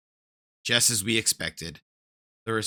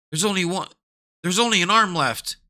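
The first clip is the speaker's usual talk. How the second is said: higher, raised voice of a startled guard; shocked guard; 9 semitones higher, 6 dB louder than usual. Acted. Guard finding only an arm left, higher startled voice. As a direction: blurt it out in alarm.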